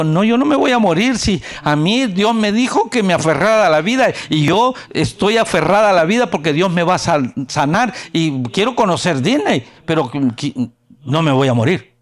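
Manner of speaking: high, loud defiant insistence; insist, loud, that she won't die; defiant girl. Retold or imitated. The sick girl tells the doctors she won't die, high and loud.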